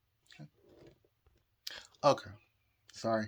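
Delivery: near whisper, hushed, choked up, fighting back tears. Stopping mid-story to pull together after crying: choking up, pausing to recover. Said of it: "I gotta pause for a second".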